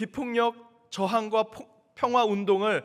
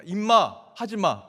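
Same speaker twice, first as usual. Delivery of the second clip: crowd shout; 6 dB louder, slower than usual. Retold or imitated. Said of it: "거기에 하나 더 들어갑니다".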